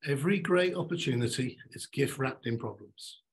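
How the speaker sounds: each word weighed, "great" leaned on; slow deliberate repeat. Shown as a demonstration. Speaker repeating the motto, "great" stressed. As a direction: say the motto slowly so it sinks in. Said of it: "I'm gonna say this three times".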